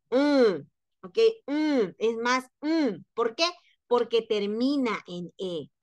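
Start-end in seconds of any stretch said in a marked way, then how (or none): 1.5-3.0 "mm" hummed slowly through the nose; nasal mm sound. Shown as a demonstration. Teacher explaining the final e, slow nasal demonstration. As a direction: draw out a nasal "mm". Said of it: "es nasal".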